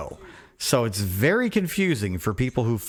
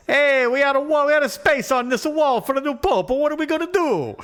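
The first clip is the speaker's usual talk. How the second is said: mock worried leader; 12 semitones higher than usual. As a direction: play a flustered official fussing. Imagining what the leaders say.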